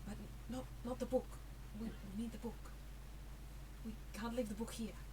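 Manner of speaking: soft, stumbling whisper under the breath. Voicing Titus urging a companion to keep the book: Titus whispering. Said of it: "sort of whispers to you".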